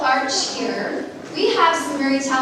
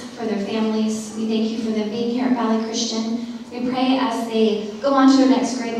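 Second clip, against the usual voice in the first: opening prayer; 3 semitones lower than usual. Real, not acted. Principal praying over students and families, earnest prayer. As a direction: pray over the students as at a service.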